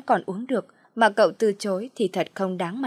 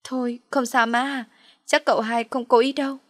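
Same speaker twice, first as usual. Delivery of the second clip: sniffling; 5 semitones higher than usual. Acted. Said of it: "giọng sụt sùi khóc".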